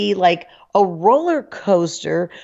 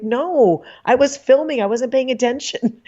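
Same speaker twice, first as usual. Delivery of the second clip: higher, defensive retort in a retold quote; defensive protest; 6 semitones higher than usual. Caught out by friends, she explains herself, higher. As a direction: defend yourself, a bit indignant. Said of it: "I'm like".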